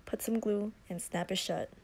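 whispering. Real, not acted. Whispering while gluing.

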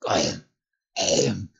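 throaty swallowing whimper; choked creature gulp. A narrator's reading. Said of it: "he whimpered".

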